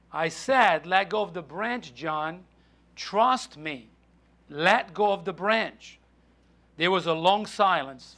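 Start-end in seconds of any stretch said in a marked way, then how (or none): 0.1-6.0 low, measured reassurance; calm firm insistence. Acted. The Lord tells hanging John to trust, calm and firm. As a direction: repeat the order patiently, pitched down. The Lord calmly repeats the order.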